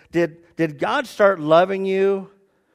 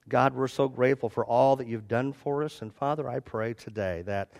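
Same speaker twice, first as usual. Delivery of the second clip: soft, slightly lowered praying voice; closing prayer; 4 semitones lower, 5 dB quieter than usual. Real, not acted. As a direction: address God gently and gratefully.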